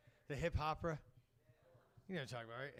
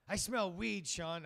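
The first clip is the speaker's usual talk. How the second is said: raised pitch, lightly mocked neighbor accusation; crazy neighbor; 4 semitones higher, 6 dB louder, slower than usual. Neighbor confronting a weed smoker on a morning walk, lightly mocked accusation. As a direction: pipe up like a nosy neighbor.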